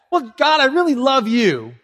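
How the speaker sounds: mildly hammed-up insincere prayer; mock prayer. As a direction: play a hollow declaration to God. Acts out an absurd prayer.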